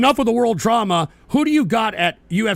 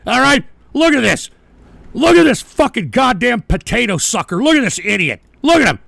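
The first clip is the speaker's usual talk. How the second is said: angry ranting; 3 dB louder than usual. Real, not acted. Raging at rival on screen.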